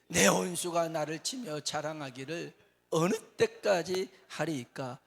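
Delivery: 느리고 힘차게 읽는 성경 낭독; 회중 앞에서 장엄하게 낭독; scripture reading. Acted. Scripture read aloud. (느리고 크게 성경을 낭독하듯)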